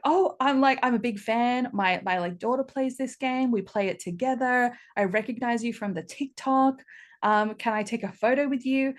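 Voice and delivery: lightly voiced excited fan asking for a photo. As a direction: imitate an excited mother meeting you. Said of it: "And she's like".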